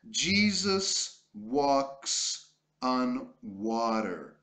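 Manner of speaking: slow, clear reading aloud for learners; slow model reading. Shown as a demonstration. Teacher reading aloud slowly for the class. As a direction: read it slowly, word by word. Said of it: "Vamos sempre ler primeiro para praticar pronúncia".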